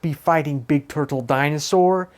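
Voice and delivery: Sonic voice. Acted. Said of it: "Sonic is like".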